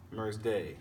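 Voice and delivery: "mer's day" split off, weight on "day"; unstressed "mer's", stressed "day"; iambic foot. Shown as a demonstration. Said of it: "unstressed, stressed".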